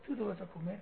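soft and matter-of-fact parent; calm, unbothered. Acted. Parent to sulking child at mealtime, calm and unbothered. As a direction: say it softly, as if nothing happened. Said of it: "tranquilo, como que si no pasó nada".

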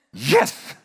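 a loud, delighted little cheer; gleeful yes. Pretend. Preacher cheering that someone else does the thinking. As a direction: cheer at getting out of the thinking work. Joking about being spared thinking.

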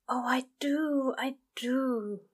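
urgent, eager whisper; fervent whisper. Acted. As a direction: whisper it with longing. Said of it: "the angel whispered fervently".

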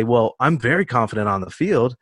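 lightly voiced cocky jock; a hint of a brash athlete. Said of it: "I just had some jock voice to come out there".

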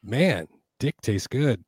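slow, mock Australian delivery; imitation Australian. Teasing the Australian friends with an imitation, slow mock Australian. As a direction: drag it out as a joke Australian. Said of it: "Here's my imitation of an Australian".

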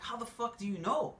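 high, incredulous how do you know; mock disbelief. Retelling a coffee shop exchange, mock disbelief. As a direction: pretend shock at being found out. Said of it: "I'm like".

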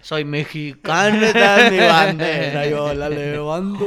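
slow, loud proud cholo chant. Retold or imitated. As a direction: drag each word out proudly like a cholo. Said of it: "código cholo".

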